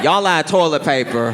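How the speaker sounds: mock shout from a toilet stall; disembodied bathroom voice. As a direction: call out like a ghost in the stall. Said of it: "disembodied voice in the bathroom going".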